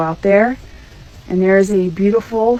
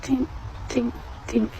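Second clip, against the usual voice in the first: quiet, light imitated tink tink of the engine; soft tinking noise; 4 semitones higher, 10 dB quieter than usual. Woman hearing her engine start failing, soft imitated tinks. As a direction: tap out a faint metallic tink. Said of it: "And then I hear".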